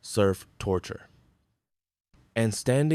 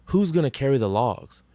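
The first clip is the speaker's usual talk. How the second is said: loud defiant call, pitched up; roaring; 5 semitones higher, 4 dB louder than usual. A narrator's reading. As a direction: bellow the call to the crew. Call continues the roared chant.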